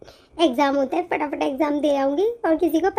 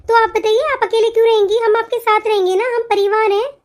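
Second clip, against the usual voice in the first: earnest pleading; 3 semitones higher, 3 dB louder than usual. Acted. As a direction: plead with sister-in-law not to leave. Pleading with elder sister-in-law. (ऊँची, ज़ोरदार विनती)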